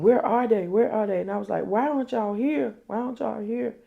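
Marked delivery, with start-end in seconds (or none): 0.0-1.2 higher, louder re-enacted pleading question; retold urgent demand. Someone waiting on the ambulance after a shooting, retold urgent and raised. 1.7-3.8 high-pitched re-enactment of pleading for help; retold desperate plea. Woman pleads with 911 for the ambulance, retold high and urgent.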